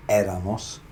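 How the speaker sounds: éramos stressed firmly on the first É; accented first syllable. Shown as a demonstration. Teacher modelling the required pronunciation for learners, stress on first syllable. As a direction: lean on the É in éramos, not on -ra-. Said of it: "the pronunciation has to be".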